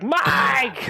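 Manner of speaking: high, drawn-out call; mock yell. Prankster pretending to fetch his brother, mock yelling. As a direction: holler for a brother across the house. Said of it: "Like yelling".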